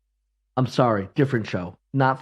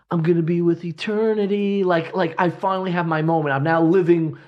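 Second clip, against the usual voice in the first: theatrical self-serenade; 4 semitones higher than usual. Retold or imitated. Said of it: "singing to himself".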